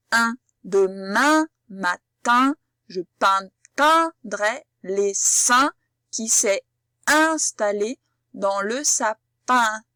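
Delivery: very slow, lips spread, each "in" sound drawn out; slow spread-lip sentence. Shown as a demonstration. Teacher modelling the "in" sound in a slow sentence. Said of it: "On essaye d'écarter ses lèvres vers l'extérieur".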